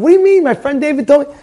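high, loud outraged surprise; shocked disbelief. Retold or imitated. Customer stunned when the shop owner says no menorahs. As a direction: sound stunned and indignant.

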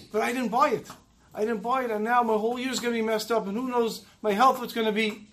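distressed pleading. Retold or imitated. Old man pleading with the Rav about his lost purchase, distressed. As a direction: beg anxiously, voice climbing.

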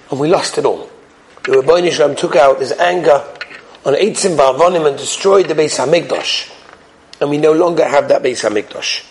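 low, subdued sorrow; hushed-down mourning for a loss; grieving emotion. Retold or imitated. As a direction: let the retold lament sink low. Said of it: "he gave it over with such emotion".

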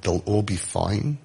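soft, slow disbelieving question; hushed doubtful rise on all; incredulous echo. Retold or imitated. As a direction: echo it back, not believing it. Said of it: "I'm like".

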